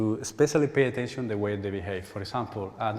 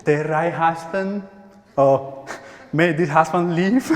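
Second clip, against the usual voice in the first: mock adult wish; 4 semitones higher, 5 dB louder, slower than usual. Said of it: "imagine doing that situation".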